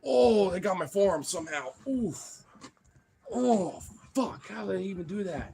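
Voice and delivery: high, wincing complaint; real hurt, voice pushed up; in pain. Real, not acted. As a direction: wince through the words. Dogs hurt his forearm.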